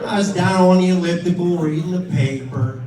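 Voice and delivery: sending up his father's words; mocking dad's line.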